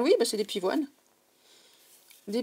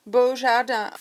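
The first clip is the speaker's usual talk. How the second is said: mock Spanish accent; 6 dB louder, slower than usual. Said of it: "du français et de l'espagnol".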